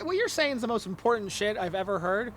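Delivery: soft praise that comes out sounding sarcastic. Real, not acted. Telling the guest their ideas matter, sounding sarcastic. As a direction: gush quietly with an unintended sarcastic edge. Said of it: "I mean that sarcastically".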